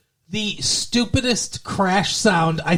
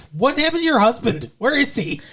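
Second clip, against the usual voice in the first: incredulous; 7 semitones higher than usual. Real, not acted. Asks absent husband's whereabouts, incredulous.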